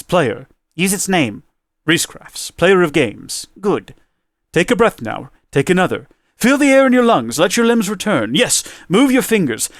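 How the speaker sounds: measured, solemn reading of a poem; unhurried dramatic recitation. Acted. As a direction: read it like a cosmic voice speaking to the player. Reads the End Poem aloud.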